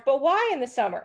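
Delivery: lightly voiced whiny little kid asking why; nagging toddler. Toddler pestering mom at the state fair, mock whiny questioning. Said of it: "the two-year-old kid who goes to the state fair".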